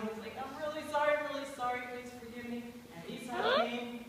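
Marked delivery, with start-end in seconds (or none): 0.4-2.6 apologetic pleading. Acted. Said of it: "He was bowing".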